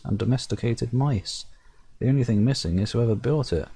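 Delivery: measured storyteller reading the game text; story narration. A narrator's reading. Reading the game's narration aloud to viewers, storyteller voice. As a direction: narrate it like a fairy tale.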